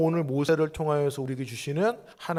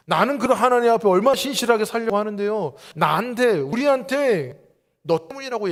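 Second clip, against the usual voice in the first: 1 protesting believer; 3 semitones higher than usual. Retold or imitated. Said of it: "어떤 마음이 드세요".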